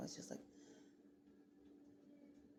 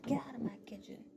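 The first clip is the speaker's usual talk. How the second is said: higher, louder snapped order; acted irritated command; mock parental scolding; 5 semitones higher, 4 dB louder than usual. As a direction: imitate a parent shooing kids away. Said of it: "I'm not telling them".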